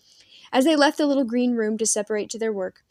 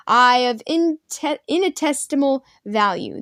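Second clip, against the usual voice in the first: cackling; 5 semitones higher, 7 dB louder, slower than usual. A narrator's reading. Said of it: "the old man cackled".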